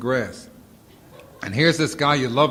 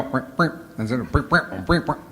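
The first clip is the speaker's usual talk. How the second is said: mock censor bleeps. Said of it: "it came out on television like".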